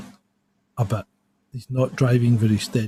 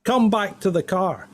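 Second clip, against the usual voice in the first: higher, commanding police call; PA announcement; 5 semitones higher than usual. Retold or imitated. Officer calling the driver back over the car PA. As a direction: order him back like a megaphone. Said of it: "through the, you know, the P A system".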